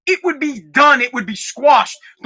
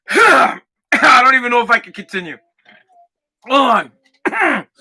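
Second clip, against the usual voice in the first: choking. Real, not acted. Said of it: "It's, like, stuck in my throat".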